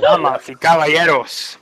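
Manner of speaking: big ring announcer intro, laughing; lucha libre announcer. Pretend. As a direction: announce it like a wrestling MC.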